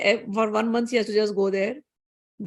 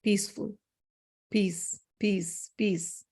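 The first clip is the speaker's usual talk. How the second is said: soft, low, soothing hush; calm everybody down with gently spaced words; hushed peacemaker's voice; quietening a crowd; 3 semitones lower, 8 dB quieter, much slower than usual. Retold or imitated. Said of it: "quietens everybody".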